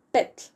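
"pet" alone, ending in a voiceless TL release; last syllable demo. Shown as a demonstration. Teacher giving learners the last syllable, one crisp beat. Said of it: "That's the last syllable".

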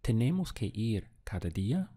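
Tenemos que ir cada día? rising at the end; question tone. Shown as a demonstration. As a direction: ask it, voice climbing on día. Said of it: "Now let's ask".

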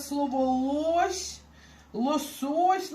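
"лось" said slowly with a clear Polish hard L; Polish pronunciation. Shown as a demonstration. Teacher shows Polish words to learners, slow Polish pronunciation. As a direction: spell out "лосось" the Polish way, slow and careful. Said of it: "Можна навести приклад".

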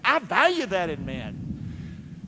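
hushed earnest restatement; soft sincere repeat. Shown as a demonstration. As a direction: drop it down and mean it.

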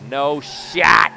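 high, sharp burst of disbelief; loud shout. Real, not acted. Player attempting a stolen base, shouting. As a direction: punch it out at full volume. Reacts while stealing a base.

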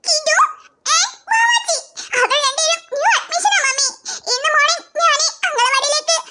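tearful tattling with sobs; crying child. Acted. Child names the teasers to mother, crying. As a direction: whimper out the complaint to mummy. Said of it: "നിന്റെ കരച്ചിൽ നിർത്തി കാര്യം".

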